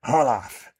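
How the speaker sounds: loud scornful sneer; Skinny sneering at the name. Acted. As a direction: spit the name out with contempt. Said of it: "Skinny sneers".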